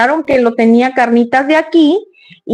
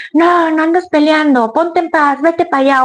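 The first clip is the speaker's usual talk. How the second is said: nervous scolding; 5 semitones higher than usual. Retold or imitated. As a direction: snap at the squabbling dogs with frayed nerves. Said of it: "con los nervios de punta que uno anda".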